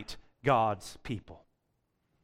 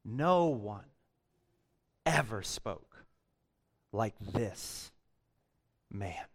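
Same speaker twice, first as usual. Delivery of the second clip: much softer and lower, fading to a hush; hushed awe; 7 semitones lower, 6 dB quieter, slower than usual. Acted. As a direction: let it sink into an awed hush. Officers' awed reply to Pharisees.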